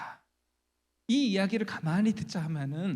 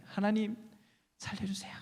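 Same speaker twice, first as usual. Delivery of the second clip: higher-pitched plea that falls soft; pleading prayer; 3 semitones higher, 4 dB quieter than usual. Acted. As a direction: act out a mother begging God. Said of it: "간절히 기도를 했어요". (간절히 애원하는 기도)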